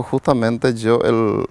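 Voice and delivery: usual speaking voice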